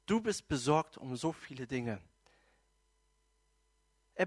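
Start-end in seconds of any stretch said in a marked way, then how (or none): 0.1-2.0 gentle, lowered voice; friendly and kind. Acted. Jesus gently answering Martha's complaint, friendly and kind. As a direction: state it kindly, without blame. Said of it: "ganz freundlich und nett".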